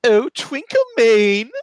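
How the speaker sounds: high, loud, drawn-out summons; theatrical high-pitched cry. Acted. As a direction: call a steed out of the darkness. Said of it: "he cries out".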